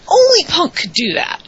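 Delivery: high, loud hype; heroic rallying shout. Real, not acted. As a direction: cheer him on, voice way up. Host hyping Punk's promo.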